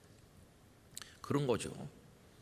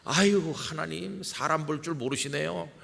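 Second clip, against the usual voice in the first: incredulous laugh; 6 semitones higher than usual. Retold or imitated. Moses brushing off God's call with a disbelieving laugh. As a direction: scoff at the idea, a little amused. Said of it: "어이없다는 듯이 웃으면서 이렇게 말하는 것 같아요".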